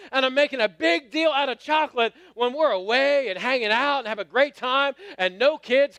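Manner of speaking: hammed-up exasperated venting; acted annoyance. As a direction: replay your irritated inner monologue, piling up complaints.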